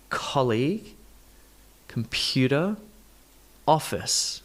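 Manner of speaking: COL in colleague, PU in computer, OF in office; isolated colleague, computer, office, stresses clear; word stress demonstration. Shown as a demonstration. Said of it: "Let's do stress position".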